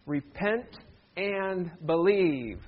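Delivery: "Repent", pause, then a drawn-out "and believe"; measured, slow read-along at an ordinary volume; leading group reading. Shown as a demonstration. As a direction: lead them slowly through "Repent and believe". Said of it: "Can you read them with me?".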